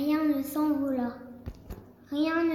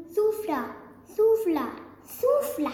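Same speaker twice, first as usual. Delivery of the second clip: climbing higher and louder with each souffla; building huff; 7 semitones higher, 3 dB louder than usual. A narrator's reading. Narrator telling the wolf blowing, rising to a peak.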